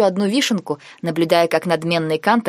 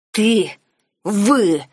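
spat with hatred; 2 semitones higher than usual. A narrator's reading. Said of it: "выплюнул он с истинно горской ненавистью".

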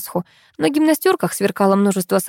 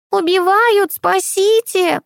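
granny hit with a bottle, screeching for help; shrieking for help; 11 semitones higher, much slower than usual. A narrator's reading. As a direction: scream for help as the bottle lands. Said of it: "заверещала та".

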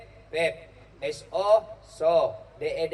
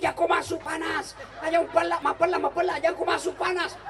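high, hammed-up Chinese-accented warning; mock Chinese accent; 8 semitones higher than usual. Mocking Chinese man warning. (logat Cina yang dibuat-buat dengan nada tinggi)

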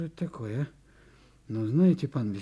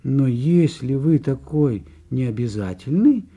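louder, rising outrage at the note; indignant reading; 4 semitones higher, 5 dB louder than usual. Acted. Butcher reading the fox's cheeky note to forester, indignant. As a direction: read her demands with growing indignation.

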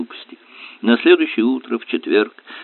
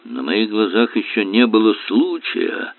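put-on hoarse old sailor. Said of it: "хрипло проговорил старый моряк".

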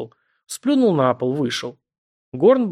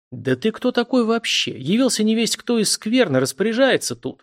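shrieking; 9 semitones higher than usual. A narrator's reading. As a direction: shriek it in outrage. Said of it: "визжит Горн". (сын визжит на чужака, визгливо)

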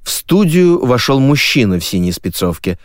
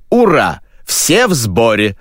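shouting host; 2 semitones higher, slower than usual. Acted. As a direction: hail the crowd with a shout. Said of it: "закричал ведущий".

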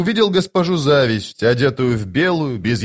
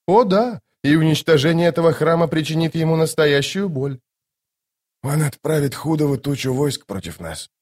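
high, airy lady's voice; Lady Envy, satisfied; 5 semitones higher than usual. Acted. Lady Envy on hurting the seer, high and satisfied. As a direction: answer smugly in a high register.

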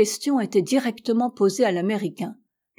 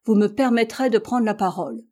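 forceful; 3 dB louder than usual. Acted. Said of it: "dit le docteur avec force".

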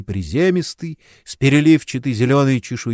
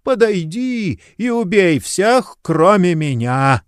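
старческий приказ; 8 semitones higher, slower than usual. A narrator's reading. Старик Слей приказывает демону.

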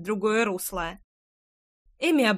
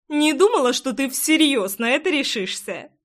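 higher, louder disbelief; surprised; 3 semitones higher, 3 dB louder than usual. Acted. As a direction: sound amazed at him. Jenny surprised at Darren.

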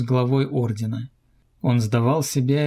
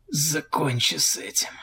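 hoarse, breathless plea; wheezing whisper; 4 semitones higher, 3 dB quieter than usual. A narrator's reading. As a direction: rasp it out, dying. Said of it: "просипел вампир".

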